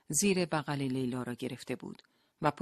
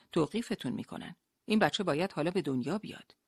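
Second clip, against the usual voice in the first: urgent; 4 semitones higher, 5 dB louder than usual. Acted. Doctor urgently explains.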